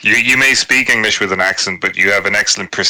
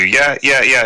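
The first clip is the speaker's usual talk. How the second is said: eager agreement; 4 semitones higher, slower than usual. Shown as a demonstration. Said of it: "agreeing with something".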